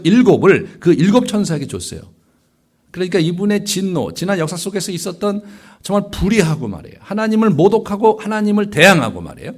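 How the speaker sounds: high, forceful sermon delivery; emphatic preaching. Real, not acted. Preacher telling of God's long-held wrath, emphatic preaching.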